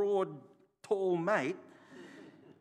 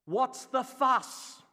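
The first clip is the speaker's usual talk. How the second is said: higher, louder, slow mock of a careless helper; mocking dismissive helper; 8 semitones higher, 8 dB louder, much slower than usual. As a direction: ham up the helper brushing him off. Helper dismissing him, retold.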